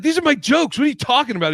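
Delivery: high, loud mock indignation; a comic defending his jokes in a high pitch; mock outrage. Offended comic protesting the heckler, high and loud. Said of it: "He's like".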